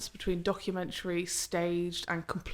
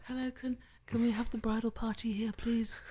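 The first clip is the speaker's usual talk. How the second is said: higher, softer timid little voice; little mouse voice; 4 semitones higher, 4 dB quieter than usual. Retold or imitated. Shy young photographer asking the bridal party, timid mouse voice. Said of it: "There's me with my little mouse voice".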